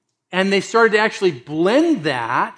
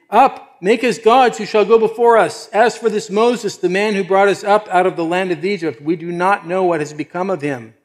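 loud, high declamation easing towards the end; demanding crowd voice; 4 semitones higher, 5 dB louder than usual. Acted. The people tell Aaron to make them gods, loudly demanding. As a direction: call it out insistently, then ease off.

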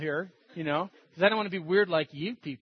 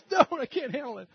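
higher-pitched mock protest; imitated upset girl; 6 semitones higher than usual. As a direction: act out her pleading objection.

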